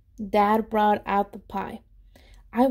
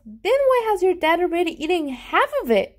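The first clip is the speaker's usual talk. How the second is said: skeptical; 7 semitones higher than usual. Acted. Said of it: "Jeremy asked".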